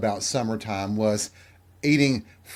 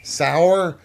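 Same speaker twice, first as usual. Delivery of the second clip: higher, baffled echo; imitating a confused child querying the word; puzzled; 5 semitones higher, 4 dB louder than usual. Child not understanding dad's watermelon verdict, puzzled.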